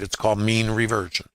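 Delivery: the word mean leaned on a little; stress on mean. Shown as a demonstration. Teaching trader stresses mean for the class, a light push on the word. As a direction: give mean a light extra push, reversion plain. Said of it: "stressing the word mean".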